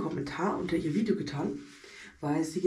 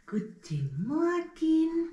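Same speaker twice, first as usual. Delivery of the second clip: talking to teeth; 9 semitones higher, much slower than usual. Pretend. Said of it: "greeting teeth".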